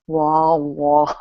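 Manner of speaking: lightly mimicked muffled adult drone; Charlie Brown adults. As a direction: mumble a flat wah wah like Charlie Brown's adults. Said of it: "like the Charlie Brown character".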